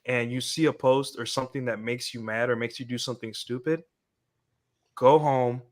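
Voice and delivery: put-on Indian accent. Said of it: "in his Indian voice".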